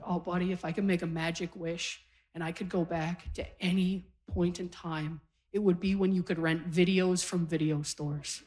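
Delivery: soft, low, mock-earnest nostalgia; wistful reminiscing. Aunt answering her young nephew, softly wistful. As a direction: confide a cherished memory, low and soft.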